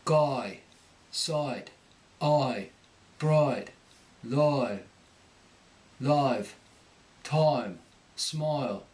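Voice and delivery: Cockney long i, r-coloured onset; Cockney long i sound; Cockney accent. Shown as a demonstration. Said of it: "The long I picks up an R before it".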